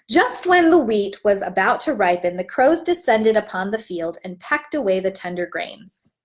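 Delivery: put-on warm, even picture-book narration for young listeners; storybook read-aloud. Teacher reads the story aloud to her class, storytelling voice.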